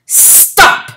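sharp, breathy call to halt; tiny man calling stop. Acted. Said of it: "called the tiny Mister Greg".

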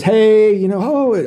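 mock upbeat therapist. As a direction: chirp it like an overly cheery therapist. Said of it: "she's all upbeat".

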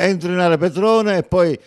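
building to a shouted goal call; breathless italian goal commentary. Real, not acted. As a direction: yell the goal, high and loud.

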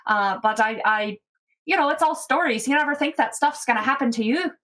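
a frightened halfling trying to make light of it; shaken halfling. Acted. Scylla continues.

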